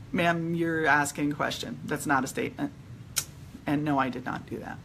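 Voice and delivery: quietly polite but firm; retold politeness. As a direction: stay civil and contained while correcting someone. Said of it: "So I was really polite to her".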